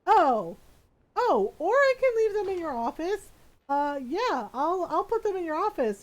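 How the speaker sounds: hammed-up nervous backing off; flustered messenger. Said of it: "He's like".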